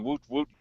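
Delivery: high, soft mock whoop; mock yelling whoop. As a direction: imitate a yelled "woot" high but hushed. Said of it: "around the room yelling".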